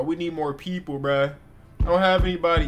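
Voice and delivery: frustrated shout. Real, not acted. Streamer shouting at the game.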